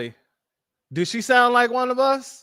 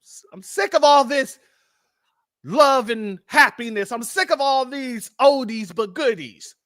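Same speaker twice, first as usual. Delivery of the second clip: raised, annoyed complaining voice; irate. Retold or imitated. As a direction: act fed up and irritated. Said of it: "gets irate and says".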